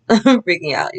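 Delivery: nervous giggle over the words; laughing at her own panic. Real, not acted.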